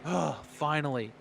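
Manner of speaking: acted relieved sigh; breathy sigh, playing a relieved driver; sigh of relief. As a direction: let out a breath of mock relief. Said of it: "breathing a sigh of relief".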